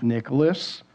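low stern full-name call; a touch of a wife's warning; quiet stern full name; serious warning. Retold or imitated. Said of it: "That's when you know it's serious".

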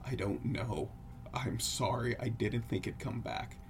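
soft, subdued, mildly fearful friend; trembling voice. Acted. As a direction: quietly play a frightened apology. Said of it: "says in a trembling voice".

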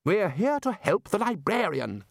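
a high, slowed, sharp retort; snapped. Acted. Ridcully rebuking the chair, high sharp snap. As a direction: cut him off firmly. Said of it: "snapped Ridcully".

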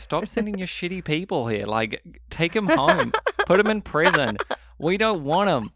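high-pitched mock complaint; mock outrage. New Zealanders refusing Australia's convicts, high mock outrage. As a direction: protest in exaggerated exasperation.

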